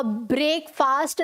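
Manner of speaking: ब्रेकफास्ट said "brake-faast"; long vowels in both halves of ब्रेकफास्ट; unsure wrong guess. Shown as a demonstration. Student trying to remember it, ब्रेकफास्ट mispronounced as "brake-faast". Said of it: "कैसे pronounce करना है".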